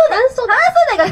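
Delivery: 半袖 in Kansai intonation; Kansai accent. Shown as a demonstration. 関西弁の抑揚で「半袖」の言い方を確かめる. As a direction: demonstrate the Kansai dialect 半袖. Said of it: "が関西ですね".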